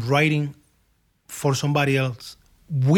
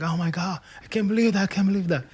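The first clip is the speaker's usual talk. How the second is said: mild mock scream of disbelief; slightly raised, understated imitation of a thrilled outburst; retold excited screaming; 4 semitones higher, 3 dB quieter, faster than usual. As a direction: act out amazed screaming without the volume. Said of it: "she started screaming".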